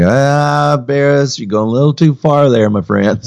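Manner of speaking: high, chiding voice of a gentle critic; mock critic. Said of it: "anyone that might say".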